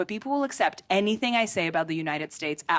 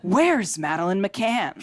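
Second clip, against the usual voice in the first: mock outraged shout; much slower than usual. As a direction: drag it out and shout it. Punchline question, shouted slowly.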